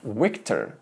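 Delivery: Victor with a soft w-like v; better soft v; right victor. Shown as a demonstration. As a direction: lips barely touch on Victor, almost w.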